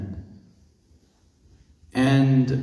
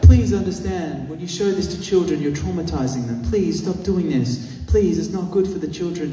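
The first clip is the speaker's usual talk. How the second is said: pleading mother; 5 semitones higher than usual. Retold or imitated. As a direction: beg him to stop, earnest. Pleading wife quoted.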